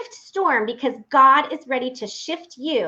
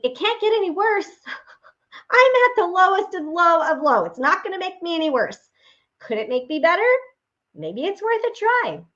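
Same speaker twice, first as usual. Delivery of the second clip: higher, a laugh breaking through; despairing but daring to hope; half-laughing despair; 7 semitones higher than usual. Retold or imitated. Remembered despairing thought.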